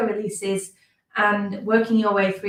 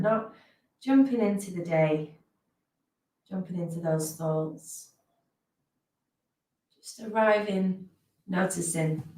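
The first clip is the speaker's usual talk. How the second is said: guided meditation. Real, not acted. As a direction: ease listeners into the present moment, unhurried.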